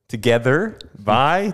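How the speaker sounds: "together" with a Swiss lilt, lightly imitated; Swiss accent. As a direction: echo the Swiss way of saying "together". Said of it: "Swiss accent apparently has me say it wrong".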